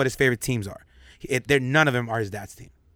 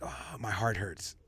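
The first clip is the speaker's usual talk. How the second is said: put-on child's soft voice; 4 semitones lower, 12 dB quieter than usual. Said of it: "he'll say something like".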